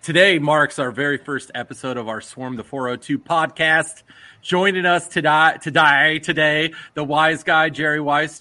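loud hammed-up British accent. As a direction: announce it like a posh British host. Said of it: "Did you like my British accent there?".

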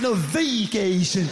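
"vacation" with a long, hard-hit first VAY; teasing wrong stress. Acted. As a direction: stretch the first syllable of "vacation" slowly. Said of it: "Just to mess with him".

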